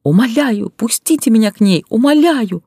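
high, loud, breaking begging; sobbing plea. A narrator's reading. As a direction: beg through sobs at the door. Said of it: "раздались рыдания и громкий рвущийся голос".

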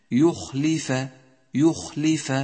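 يخلف carefully voiced as u, i, a; distinct short vowels. Shown as a demonstration. Teacher demonstrating lip movement, careful recited يخلف with distinct vowels. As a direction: shape each vowel of يخلف: yukh-li-fa. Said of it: "تتحرك شفاهك حسب حركة الحرف".

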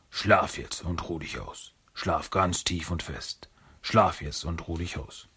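villain's recorded voice lulling the monster to sleep; hypnotic lullaby voice. Acted.

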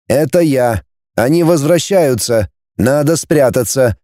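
ordinary delivery, nothing marked

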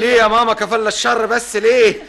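loud protest. Acted. Son protests loudly to mother.

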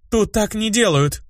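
high, slow heated objection; heated protest. Acted. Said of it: "горячо воскликнула Анариэль".

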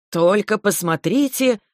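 bright, gleeful cry, rising high; cheerful exclamation. A narrator's reading. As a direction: call out, laughing at the sight. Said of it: "весело воскликнул он".

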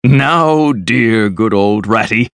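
hasty coaxing. A narrator's reading. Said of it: "said Toad quickly".

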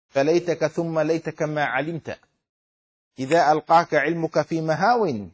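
measured, metrical Arabic verse; verse recitation. Acted. Teacher quoting a verse on misreading, measured recitation. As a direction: recite the couplet in a firm rhythm.

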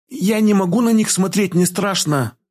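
high-pitched fearful complaint; frightened girl. A narrator's reading. Girl recoils from the corpses, frightened. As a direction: say it high, scared of what lies there. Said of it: "шепнула она".

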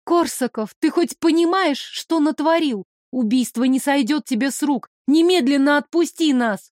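выше, гневно наступая; гневно требовать отпустить; гневное обвинение. Acted. Героиня обвиняет убийцу. (героиня гневно обвиняет Корсакова)

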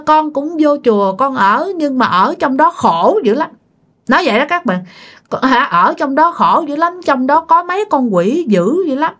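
a mild imitation of a hungry ghost complaining; lament of a suffering spirit. Spirit complains through possessed aunt. (giọng vong hồn than khổ, hơi cao)

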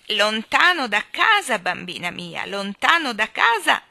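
lightly voiced old man's crow; a touch of croaking gloat, stretched words; croaking old great-grandfather. Great-grandfather taunting Jane far from home, lightly croaked. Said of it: "gracchiò il bisnonno".

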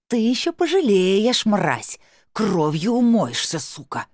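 furious drawn-out threat; shrieking threats. Acted. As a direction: scream curses through the door. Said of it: "Она ещё что-то там верещала".

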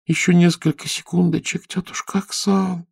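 put-on high, slow drawn-out pleading girl; pleading drawl. Sleepy girl pleading with aunt Aksal, high and drawn out. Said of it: "умоляюще протянула".

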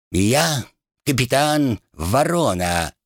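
slow, high, lordly drawl of a captain; aristocratic captain voice. Pretend. Rat mimics the captain for his friend, slow aristocratic voice. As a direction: play the haughty crow captain. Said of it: "на удивление точно передав аристократический выговор".

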